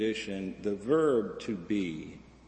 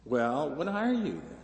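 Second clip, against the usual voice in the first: puzzled questioner; 5 semitones higher than usual. Acted. People question the Buddha.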